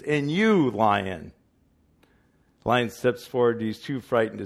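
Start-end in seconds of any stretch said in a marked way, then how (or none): 0.0-1.3 loud booming summons; wizard voice. Retold or imitated. Wizard summoning the Lion, booming. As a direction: call him out grandly. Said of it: "The wizard".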